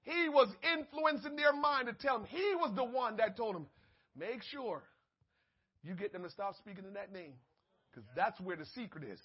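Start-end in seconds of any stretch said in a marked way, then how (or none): 4.1-9.2 devil's whisper. Retold or imitated.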